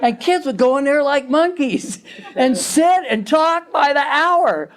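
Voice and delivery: amused, chuckling as you tell it; laughing. Real, not acted. Laughs while describing the kids.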